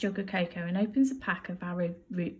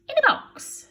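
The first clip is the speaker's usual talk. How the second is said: surprised Betty; 6 dB louder than usual. Acted. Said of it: "says Burglar Betty".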